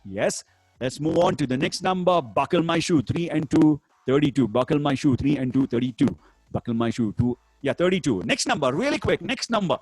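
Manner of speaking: bingo caller=1. Acted. Bingo number calls.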